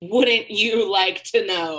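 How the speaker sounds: slow, coy evasion; coy tease. Acted. Teasing the table by dodging their question, slow and coy. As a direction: draw it out teasingly.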